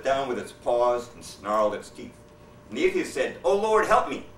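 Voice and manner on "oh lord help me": high, loud desperate cry for help; panicked plea. Acted. Atheist under the bear cries out in panic. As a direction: beg the Lord in sudden terror.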